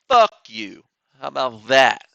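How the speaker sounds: cheeky loud retort; loud jab. Real, not acted. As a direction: throw it at the departed viewers. Swearing at viewers who left.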